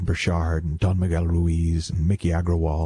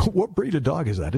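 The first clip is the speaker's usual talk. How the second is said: higher-pitched mock curious voice; curious dog question; 8 semitones higher than usual. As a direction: play a curious passer-by asking about a dog. Imagined dog-owner chat.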